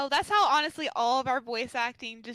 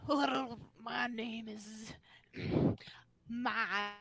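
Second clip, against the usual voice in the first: Eridan voice; 3 semitones lower, slower than usual. Acted. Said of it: "Why does he sound like Patrick Star?".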